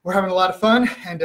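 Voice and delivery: slightly winded, quick breaths. Real, not acted. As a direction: talk while a bit out of breath. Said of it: "I'm a little out of breath".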